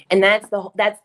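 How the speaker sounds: tripping over the words; halting restarts, real stammer. Real, not acted. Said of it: "Sorry, I'm stammering".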